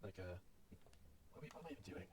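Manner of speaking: skater surfer voice. Acted. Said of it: "maintain my skater surfer voice".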